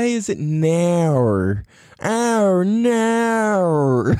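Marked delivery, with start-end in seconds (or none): 2.0-4.1 Australian "Oh, no" pitched higher, near a shout; hammed-up Australian "no"; mock Australian. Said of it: "why do you talk like that?".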